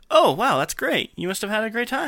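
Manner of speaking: high, swooping mock creepy reply; creepy wink. Replying to the sushi delivery boy, creepy winking tone. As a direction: say it with an insinuating wink in the voice. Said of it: "sounds like a really creepy wink".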